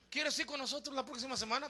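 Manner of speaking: soft, half-hearted asking; very quiet, unassertive question; timid invitation. Acted. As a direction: imitate someone inviting without conviction.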